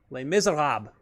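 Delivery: Les Miserables said the French way, leɪ mizeʁab; a light French lilt on Les Miserables; quasi-French accent. Retold or imitated. Naming the winning show to viewers, light quasi-French accent. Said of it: "I said that with a quasi-French accent".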